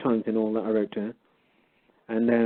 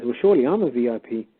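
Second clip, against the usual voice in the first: mock-indignant, with swooping pitch; lightly sarcastic retold comeback; making fun; 2 semitones higher than usual. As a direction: play up the wide-eyed question, teasing. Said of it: "then I started making fun".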